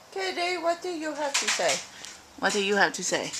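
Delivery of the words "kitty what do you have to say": cat talk. Real, not acted. Talking to the cat.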